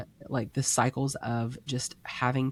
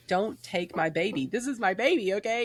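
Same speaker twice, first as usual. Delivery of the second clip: higher, clingy mock whine; mock protective plea; 7 semitones higher than usual. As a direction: play it like guarding a baby. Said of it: "And I'm like".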